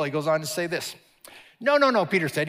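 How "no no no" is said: loud, high protest; Peter's loud high no. Acted. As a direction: push back hard, high and loud. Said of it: "He protested".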